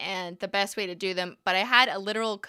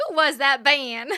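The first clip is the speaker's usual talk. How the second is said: laughing accent attempt; 5 semitones higher, 7 dB louder than usual. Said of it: "Southern accent".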